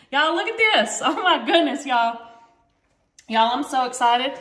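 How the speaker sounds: excited. Real, not acted. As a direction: gush over the dish. Showing the finished cake.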